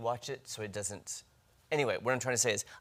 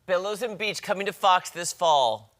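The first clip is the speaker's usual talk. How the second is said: louder, higher TV promo voice; announcer voice; 7 semitones higher, 8 dB louder than usual. Pretend. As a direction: sell a new show like a network trailer. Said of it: "the way you sell it".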